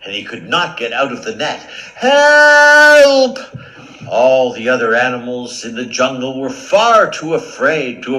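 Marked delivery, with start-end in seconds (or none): 1.9-3.4 louder, higher desperate yells; cries for help. Acted. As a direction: shout for help, trapped.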